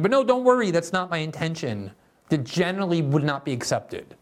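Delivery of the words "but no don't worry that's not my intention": mock reassurance. Mock defence of swastika shirt.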